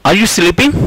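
drawn-out, very slow classroom example; slow model sentence. Shown as a demonstration. Teacher reads the example very slowly to students, drawn out. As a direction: spell out each word slowly for the class. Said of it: "slow model sentence".

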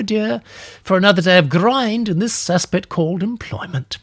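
breezily clock off for the day; old lady. Acted.

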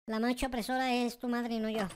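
ordinary talk, nothing marked

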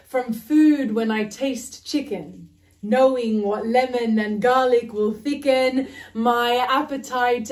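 measured spoken word delivery; poetry reading. Acted. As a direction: perform the poem steadily. Reads her poem aloud.

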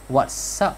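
"What's" with a hissed s; voiceless S ending. Shown as a demonstration. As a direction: hold the s in "What's" before "up". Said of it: "phát âm là s".

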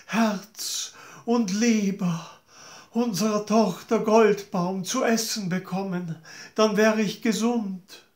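lightly voiced wicked queen; scheming queen. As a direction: ask it sweetly but coldly. Queen demands daughter's heart.

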